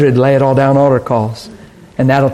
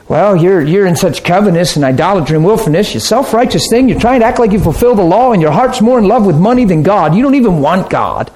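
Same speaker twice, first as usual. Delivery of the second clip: higher, rattled-off accusing tirade; mock-preachy telling-off, piling up the charges; scolding self-righteous rebuke; 4 semitones higher than usual. Preacher mimics believers berating the rich man, scolding. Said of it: "That's how we could treat people".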